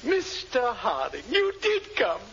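overjoyed welcome. Acted. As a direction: voice leaps high on you did come. Willoughby overjoyed at Harding's visit.

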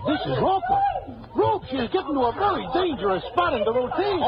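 half-amused, half-horrified laugh; laughing at a bad dance. Watching a bad dance routine.

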